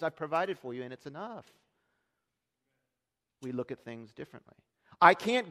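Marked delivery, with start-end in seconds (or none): 0.0-1.4 softer, calm voice of God; gentle reassurance. Retold or imitated. God reassuring the worried listener, softly. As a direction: settle them with quiet certainty. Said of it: "God looks at what you have and says".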